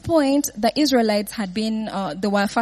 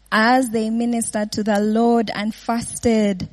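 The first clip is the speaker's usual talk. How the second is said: slow, each word weighed; slow emphatic rereading; slower than usual. Shown as a demonstration. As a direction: read the verse again slowly so it sinks in.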